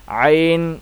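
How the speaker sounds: عین pushed from the throat and drawn out; throaty ain. Shown as a demonstration. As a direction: press عین out of the throat, holding it. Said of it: "گلے سے آواز نکلے گی اس کی، زور لگا کے تھوڑا سا پڑھیں گے".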